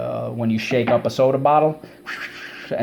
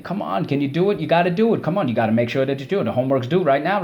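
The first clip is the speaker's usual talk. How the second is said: pushy, higher-pitched nagging demand; pressuring demand; 4 semitones higher, faster than usual. Acted. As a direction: pile on the pressure, mock-insistent. Acting someone demanding, applying pressure.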